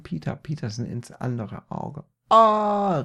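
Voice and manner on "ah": high, loud acted scream; pained cry. A narrator's reading. Peter hit in other eye, loud high cry. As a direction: yell out in mock pain. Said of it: "rief er".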